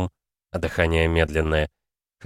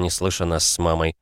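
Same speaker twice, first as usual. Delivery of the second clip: plain reading voice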